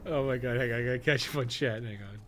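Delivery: usual speaking voice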